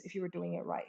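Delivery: pointed emphasis on "right" as the closing word; stress on RIGHT. Real, not acted. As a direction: lean on the word "right" at the end. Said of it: "I emphasize the word right".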